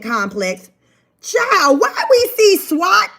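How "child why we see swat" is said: high, stunned disbelief; surprised. Real, not acted. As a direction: react like you can't believe it. Surprise at seeing SWAT.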